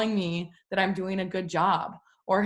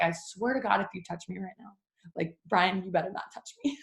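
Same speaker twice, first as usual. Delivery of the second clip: warning; 4 dB quieter than usual. Retold or imitated. Exhausted new mom warning Brian not to touch her, quiet threat. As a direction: hiss the threat quietly to your husband. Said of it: "I was like".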